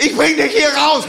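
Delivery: high, strained battlefield yell; war-movie shout. Acted. Friend in war mode rescuing his comrade, dramatic shout. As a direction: yell like a soldier under fire. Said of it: "in so 'n Kriegsmodus rein".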